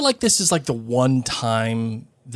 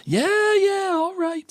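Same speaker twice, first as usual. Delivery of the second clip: dismissive Ron; slower than usual. Acted. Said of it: "said Ron".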